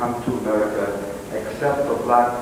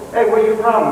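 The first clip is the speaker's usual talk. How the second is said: cab driver voice; 8 semitones higher, 7 dB louder, faster than usual. Retold or imitated.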